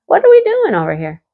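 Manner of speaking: high, surprised question to herself; half laughing at the commotion; amused surprise. Real, not acted. Watching cows chase calves, surprised and amused. Startled by cows running around.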